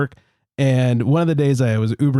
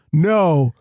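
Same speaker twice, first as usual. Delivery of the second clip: mock proud driver; 5 semitones higher, slower than usual. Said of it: "And he goes".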